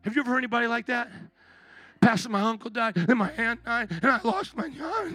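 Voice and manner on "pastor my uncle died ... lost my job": mock complainer. Imitating a complainer to pastor.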